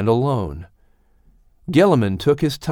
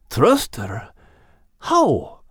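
put-on high young puppy voice, higher than the narrator; a frightened young pup remembering his mum, pitched up high; Max the puppy; 3 semitones higher, much slower than usual. Puppy Max tells old Gilliman about losing his mum, high and young.

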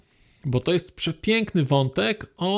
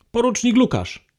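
calling out; 6 semitones higher, 4 dB louder than usual. Acted. Calling tree names in game.

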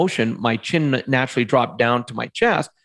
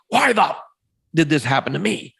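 angry why me; 3 semitones higher than usual. Retold or imitated. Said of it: "changed the tone of the question".

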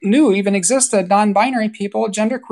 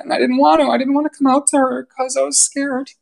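choked up; 4 semitones higher than usual. Real, not acted. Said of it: "I get a little choked up here".

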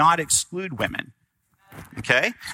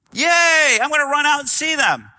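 high, loud, gleeful shout; excited cheer; 12 semitones higher, 5 dB louder than usual. Pretend. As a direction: burst out like a thrilled kid running to the door. Imagined excited reaction to parents.

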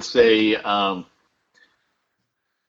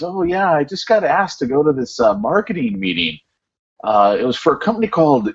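imitating a Welsh accent, higher; light Welsh lilt, mock-casual; 6 semitones higher than usual. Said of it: "this is with his, his Welsh accent".

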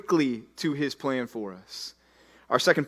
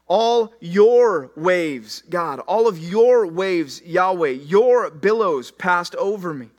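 impassioned prayer; 5 dB louder, much slower than usual. Acted. Preacher voicing Jonah's prayer.

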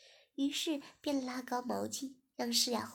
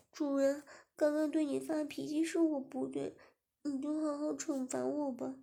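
Shiya, pitched up and coy; a young woman sweetly owning her fault; higher girl's voice; 3 semitones higher than usual. Acted. Shiya apologising to her master, higher and coy.

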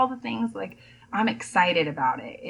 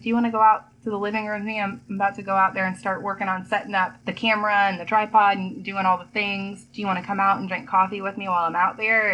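excited; faster than usual. Retold or imitated. Eager invite to husband.

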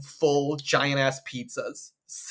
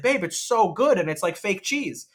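put-on gushing to boyfriend; 5 semitones higher, slower than usual. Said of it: "I made such a big deal about it".

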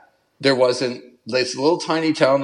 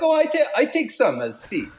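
laughing; 12 semitones higher than usual. Retold or imitated. Retold quote of the ferry guy.

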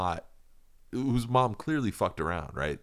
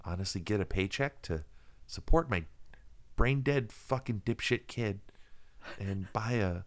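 cooler Macy voice. Pretend. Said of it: "he probably actually talks like this".

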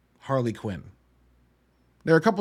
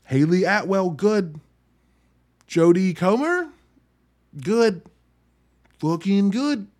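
louder, punchy one-word verdicts; loud verdict quote; 5 semitones higher, 6 dB louder, slower than usual. Retold or imitated. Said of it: "I walked out of that movie and was like".

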